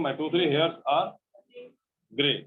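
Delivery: very slow, word by word; slow model answer. Shown as a demonstration. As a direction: spell out the answer slowly. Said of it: "English में क्या बोलेंगे". (धीमा, शब्द-शब्द उत्तर)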